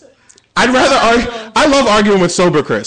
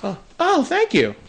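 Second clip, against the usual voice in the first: mock sommelier; 5 semitones lower, 9 dB quieter than usual. Mock reverent sommelier reply.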